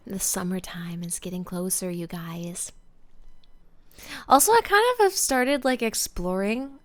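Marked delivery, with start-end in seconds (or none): 0.1-2.7 hushed, breathy whisper to viewers. Real, not acted. Streamer whispering to her viewers. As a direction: lean in and whisper it.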